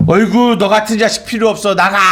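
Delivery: fast, mildly mocking angry parent. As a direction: rattle it off like a parent blowing up. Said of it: "막 그러-, 그런단 말이죠".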